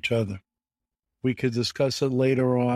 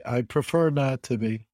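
ordinary delivery

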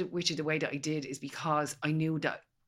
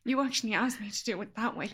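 higher, mock-frustrated student voice; imitating Natasha; 7 semitones higher than usual. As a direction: play her confused protest, pitched up. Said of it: "That was a really good impression".

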